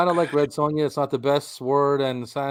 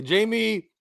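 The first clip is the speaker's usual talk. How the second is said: lightly voiced Arnie, higher pitch; a touch of Arnie, pitched up; 6 semitones higher than usual. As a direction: say it with a hint of an Arnie impression. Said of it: "use your Arnie voice and say".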